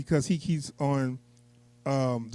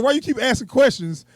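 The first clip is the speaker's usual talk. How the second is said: mocking villain; 8 semitones higher, 5 dB louder than usual. Quoting villain mocking spy.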